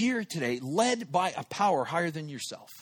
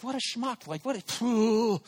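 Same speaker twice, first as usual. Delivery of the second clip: higher-pitched self-disgust, ending in a puff; exasperated self-reproach; 5 semitones higher than usual. Retold or imitated. Caller thinks she hung up, exasperated at himself. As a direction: berate yourself in exasperation. Berating himself in retold thought.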